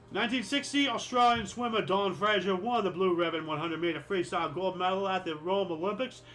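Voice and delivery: put-on a light, god-awful Australian accent; lightly put-on Australian accent; bad Australian accent. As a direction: read the Olympics news with a hint of Australian accent. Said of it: "my Australian accent, mate, is just god-awful".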